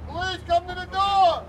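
shouting. Real, not acted. Police raid, calling at the door.

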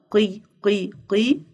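"قي، قي، قي" as separate qee beats; "قي" repeated as a sounded-out syllable; qaf with kasra. Shown as a demonstration. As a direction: drill "قي" three times, evenly spaced. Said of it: "قاف كسرة".

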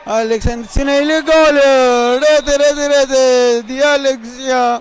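slow, stretched goal cry; breathless italian goal commentary. Real, not acted. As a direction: call the goal with rising joy. Live goal call in match.

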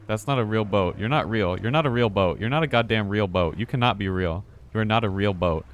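loud, insistent disbelief; real exasperated yelling at a game monster; yelling at the boat. Real, not acted. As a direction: shout down the fake boat.

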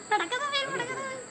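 high piercing street-vendor cry; shrill fish hawker calling out; sharp piercing fish seller. Retold or imitated.

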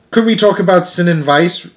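put-on pleading girl. A narrator's reading. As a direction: beg the teacher sweetly. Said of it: "pleaded Lydia Lacy".

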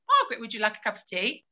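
asking Margaret about tea quickly, then waiting in silence; quick plain question. Shown as a demonstration. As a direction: rattle it off, then wait. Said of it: "if Margaret didn't reply".

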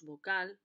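"vocal" with weight on CAL, vo-CAL; stress on last syllable. Shown as a demonstration. Teacher demonstrating the tonic syllable, "vocal" stressed on its last syllable. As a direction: punch the final syllable of "vocal". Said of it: "remarcando la última sílaba".

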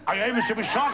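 performed character question. Acted. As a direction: deliver it out to the audience. Poem character's line, then repeated aside.

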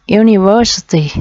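"University" stressed on VER, the third syllable. Shown as a demonstration. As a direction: land the beat on VER in "University". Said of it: "trọng âm ba nha các bạn".

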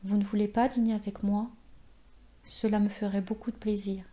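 timide, la fin presque chuchotée; avec timidité. Acted. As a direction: une invitation osée du bout des lèvres. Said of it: "elle demanda avec timidité". (la vieille dame invite le narrateur, timidement)

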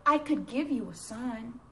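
a touch of tenderness, easing off; understated tender reply. Acted. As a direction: say it as mild, patient reassurance. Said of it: "he tenderly said".

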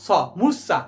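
স picked out alone, then heard inside মূর্ছা; pronunciation demo. Shown as a demonstration. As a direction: isolate স, then say মূর্ছা with that s clearly sounded. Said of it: "উচ্চারণটা কি?".

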